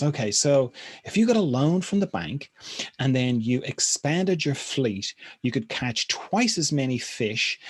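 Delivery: high, loud, excited sales pitch; eager businessman. Retold or imitated. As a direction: pitch the big plan, all fired up.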